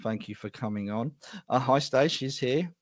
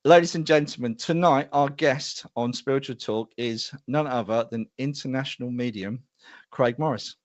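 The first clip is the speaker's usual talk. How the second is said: showman's guest introduction, opening loud; announcer introduction; 3 dB louder than usual. Real, not acted. Host presenting tonight's guest to viewers, announcer style.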